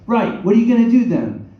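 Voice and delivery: high, loud Cockney-style challenge; hammed-up British accent. Exasperated director challenging the actor, loud mock British accent. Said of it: "I'm gonna do a Dick Van Dyke accent now".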